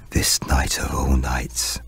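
slow breathy whisper; old woman whispering. Acted. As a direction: whisper it slowly and ominously. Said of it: "whispered the old woman".

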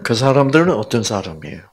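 ordinary delivery

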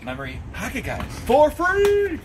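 hammed-up infomercial hype; infomercial pitch. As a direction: sell it like a late-night TV ad.

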